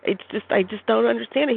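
a touch of outrage on his behalf; mild indignant friend. Retold or imitated. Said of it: "is indignant about this".

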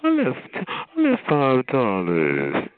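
slow, drawn-out mock boast; stretched-out mocking imitation; mocking quote. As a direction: mimic a show-off, dragging it out. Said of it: "this is your taste for food".

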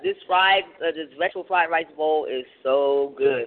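chewing while talking; mouth full. Real, not acted. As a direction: talk through a mouthful. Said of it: "I know I'm smacking in everybody's ear".

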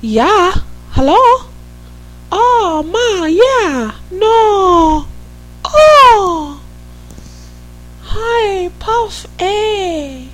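high singsong Minnesota phone voice; Minnesota accent. Pretend. Host shows off her Minnesota accent to the listeners. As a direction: put on a sing-song Minnesota accent, pitched high. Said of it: "I'm gonna do the accent".

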